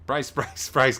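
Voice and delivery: urgent flight attendant call; crew shouting brace. Pretend. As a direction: shout it like cabin crew before impact. Mock cabin crew brace call.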